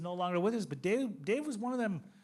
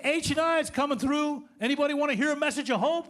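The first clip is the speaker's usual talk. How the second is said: louder, higher cholo calling out; 6 semitones higher, 7 dB louder than usual. Retold or imitated. Cholo announcing a meeting through the jail day room, calling out. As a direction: call it out like a cholo. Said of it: "this cholo came walking through".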